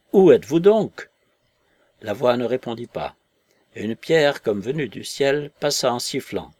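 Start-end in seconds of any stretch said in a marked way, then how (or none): 0.1-1.1 loud, high-pitched demanding call; appel exaspéré. A narrator's reading. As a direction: shout for the hidden speaker. Marvel appelle la voix invisible. (cri fort et aigu)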